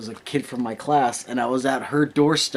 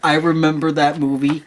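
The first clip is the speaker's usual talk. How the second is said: laughing; 4 semitones higher, 4 dB louder than usual. Real, not acted. Excited recognition of movie.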